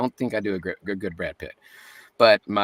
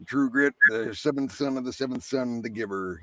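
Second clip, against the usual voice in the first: Southern accent; 3 dB quieter than usual. Shown as a demonstration. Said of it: "I gave it a Southern accent".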